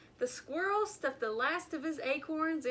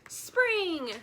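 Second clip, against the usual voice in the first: insisting; 7 semitones higher, 6 dB louder than usual. A narrator's reading. Groundhog insisting to grumpy pig.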